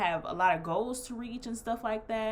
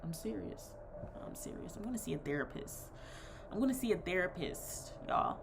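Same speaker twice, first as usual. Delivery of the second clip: deadpan straight face; 5 dB quieter than usual. Retold or imitated. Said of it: "I kept a straight face".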